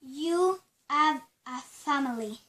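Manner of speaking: slow, spaced-out words; spirit questioning. Pretend. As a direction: address a spirit slowly and deliberately.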